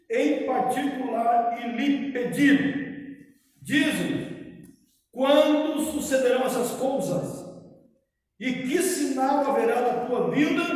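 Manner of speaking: solemn, measured Bible reading; scripture reading. Acted. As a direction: read the Gospel aloud to the congregation. Reads Gospel passage aloud.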